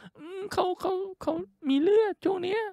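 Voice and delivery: very high squeaky female imitation; shrill girl's voice. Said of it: "เสียงแม่งแหลมมาก".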